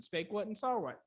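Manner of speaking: paired verbs Spake and saw stressed. Shown as a demonstration. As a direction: hit spake and saw, light on each what. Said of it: "probably be a verb pattern".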